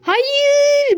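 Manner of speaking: high, loud, falling "hayır"; a sudden panicked cry. Real, not acted. Gamer spots an enemy, panicked cry.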